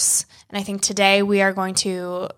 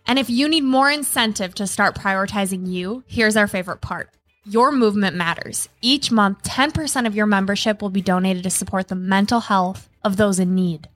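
ad read. Acted. Ad read over music.

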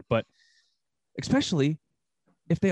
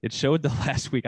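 breaking into laughter mid-quote; can't keep a straight face reading it out; reading a quote through giggles; laughing while reading; 2 semitones lower than usual. Real, not acted. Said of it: "I can't do this without laughing".

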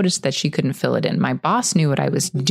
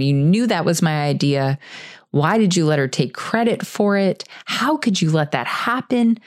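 retold angry outburst. Employee confronting boss over stolen credit, retold angry outburst. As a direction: confront someone, re-enacting it with restrained heat. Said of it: "I let him have it".

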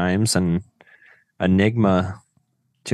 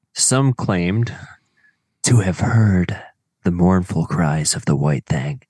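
mysterious voice. Pretend. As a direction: read it like a campfire legend. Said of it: "I feel like I have to read it in, like, the mysterious voice".

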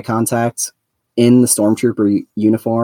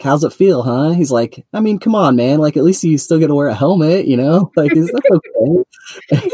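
teasing Mayfeld voice; 5 semitones higher than usual. Retold or imitated.

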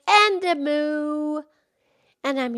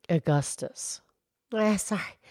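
much lower, gentle cow voice; Mildred the cow; 5 semitones lower, 8 dB quieter than usual. Acted. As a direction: drop the pitch low to play the old cow. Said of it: "Mildred the Moo Moo Cow".

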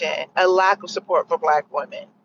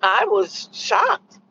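slow deadpan; much slower than usual. Shown as a demonstration. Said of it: "needless to say".

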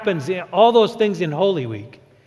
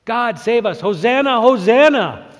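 crowd crying hosanna; 3 semitones higher than usual. Retold or imitated. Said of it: "they're recognizing".

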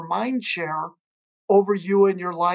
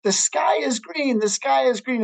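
lightly voiced insistent donkey, higher pitch; higher-pitched mock arguing; 5 semitones higher than usual. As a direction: insist on it like a mildly stubborn donkey. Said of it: "a donkey starts arguing with a tiger, saying".

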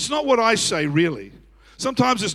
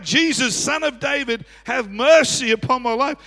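retold cry, a touch raised; 4 semitones higher than usual. They call to Jesus for mercy, crying out. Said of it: "began to cry out".

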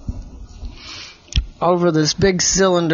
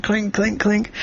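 imitated blade strikes; little ringing clinks for a sword fight; clinking swords; 5 semitones higher, 3 dB quieter than usual.

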